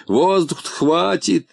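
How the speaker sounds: sarcastic, high and slow; mocking. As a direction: scoff at the idea. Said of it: "передразнил Полботинка".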